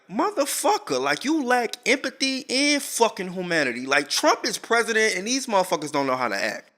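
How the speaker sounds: high-pitched mock tearful outrage; retold crying. Crying mother to the police, mock tearful outrage. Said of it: "she's crying like".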